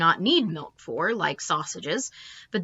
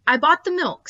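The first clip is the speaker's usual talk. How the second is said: father voice; 9 semitones higher, 5 dB louder than usual. A narrator's reading. Father's defensive reply.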